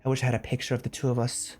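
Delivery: even, measured reading voice; love letter read aloud. Acted. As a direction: read a tender letter out evenly.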